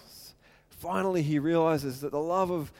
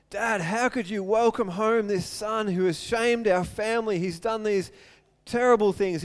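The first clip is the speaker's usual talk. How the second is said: higher, indignant demands; angry protest; 4 semitones higher, 4 dB louder than usual. Acted. Older brother confronting his father about the returned son, angry. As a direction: confront the father, bitter and upset. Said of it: "and he's angry".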